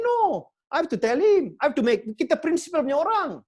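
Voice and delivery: loud, rising declaration of principle; defiant speech about principles, ending in a shout; passionate insistence. Retold or imitated. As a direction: proclaim it like a creed, building to a shout. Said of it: "I say".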